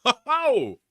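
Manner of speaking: belly-laugh ho ho; hearty laugh. Real, not acted. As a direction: burst out laughing at the joke. Delighted by a viewer's joke.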